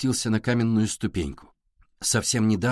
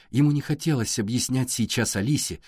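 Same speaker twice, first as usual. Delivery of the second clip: ordinary delivery, nothing marked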